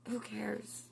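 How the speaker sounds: breathy whispered, no voice at all. Shown as a demonstration. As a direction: whisper it softly like ASMR.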